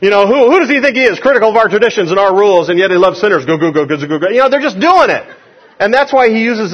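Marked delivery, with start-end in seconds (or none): 0.0-3.5 quick, indignant grumbler; mock indignant complaint. Acted complaint of the grumbling Pharisees. 3.5-4.3 imitated grumbling murmur; mock crowd grumbling. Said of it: "it sounds like what it means".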